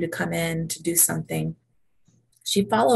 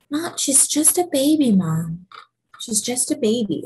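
lightly voiced pleading daughter; 5 semitones higher than usual. Sophia pleading for her baby sister.

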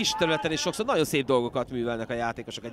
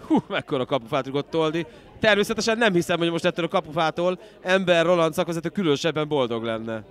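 excited hungarian sports commentary; 3 semitones higher, 5 dB louder than usual. Real, not acted. Lively play-by-play.

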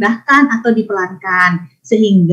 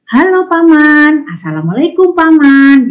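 slow, higher, courteous greeting to an uncle; polite greeting; 4 semitones higher than usual. Shown as a demonstration. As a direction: model a respectful hello, slowly. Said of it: "suaranya seperti ini". (sapaan sopan dan pelan)

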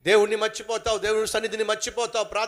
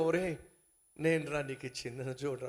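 hushed call; 5 semitones lower, 7 dB quieter than usual. Acted. Prince calls softly again.

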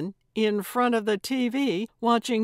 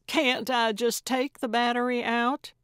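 higher-pitched objection; protesting question; 5 semitones higher, 3 dB louder than usual. A narrator's reading. Gertrude objects to smashing her phone, protesting. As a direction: push back, pitch raised.

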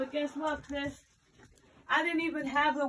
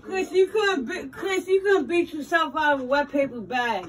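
mocking laugh; 7 dB louder than usual. Real, not acted. Roommate mocks Chris, laughing the whole insult.

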